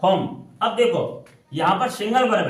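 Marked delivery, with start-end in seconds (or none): 0.0-0.3 slow dictation. Shown as a demonstration. Teacher presenting the next English sentence, very slow. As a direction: read each English word very slowly. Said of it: "चलो".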